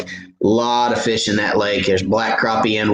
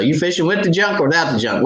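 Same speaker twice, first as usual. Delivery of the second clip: higher and fast, tossed-off; quick partner question; 6 semitones higher, faster than usual. Retold or imitated. Quoting what he and his partner ask each other, quick and higher. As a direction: rattle it off like you always ask it. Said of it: "that's what we ask each other".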